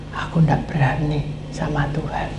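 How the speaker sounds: hushed, fearful whisper. Retold or imitated. Man confessing his fear of God, whispered. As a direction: breathe it out in awe.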